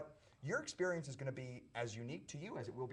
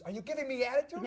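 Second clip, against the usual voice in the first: 1 mock tough cop; 12 semitones higher, 6 dB louder than usual. Cop challenging him.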